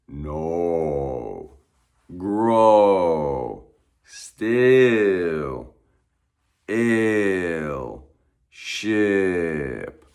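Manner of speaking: each word said alone, vowels stretched out; vowel drill list. Shown as a demonstration. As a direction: read the list slowly, leaning into every vowel.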